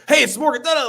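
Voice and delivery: high, loud, overeager greeting; pushy, overexcited hello; super hot energy. Retold or imitated. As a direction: come in way too hot. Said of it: "come in super hot".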